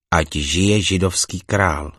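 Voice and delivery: slow, drawn-out mock acclaim; mocking cheer. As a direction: hail him as king in scorn. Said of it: "posmívali se mu". (posměšné provolání)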